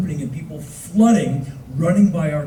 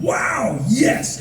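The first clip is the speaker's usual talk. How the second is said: higher, delighted exclamation; mock enthusiasm; 6 semitones higher than usual. History Channel saying yes to the pitch, mock delight. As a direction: swoop up in exaggerated approval.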